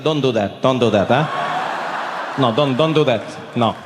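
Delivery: low, slow dad voice; disapproving dad. Acted. Dad stopping his son's German, disapproving. Dad's dismayed reply, acted.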